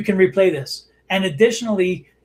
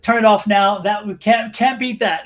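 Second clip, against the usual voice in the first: mock triumphant quote; 5 dB louder than usual. Retold triumphant remark ending in laugh.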